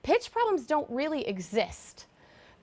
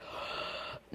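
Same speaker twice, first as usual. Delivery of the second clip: surprised gasp; 13 dB quieter than usual. Shown as a demonstration. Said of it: "as if you got a big surprise".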